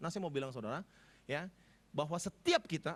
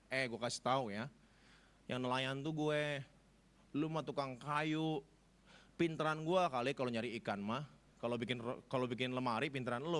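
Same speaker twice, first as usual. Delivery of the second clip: cocky retort; 7 semitones lower than usual. Retold or imitated. Peter's inner retort, slowed.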